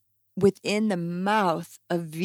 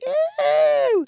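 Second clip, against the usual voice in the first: high squealed ew of disgust; mock the listeners' disgust; 3 dB louder than usual. Mimicking grossed-out listeners, high ew. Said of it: "vegetarian and vegan listeners are saying".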